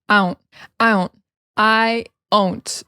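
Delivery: "I don't" with the D dropped, run together; reduced American "I don't", D left out. Shown as a demonstration. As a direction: glide through "I don't" with no D sound. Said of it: "we drop the D and say".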